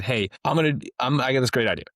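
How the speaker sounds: brash hammed-up con man offer; mock trafficker pitch. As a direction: rattle it off like a shameless scammer pitching a scheme. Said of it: "if I showed up and said".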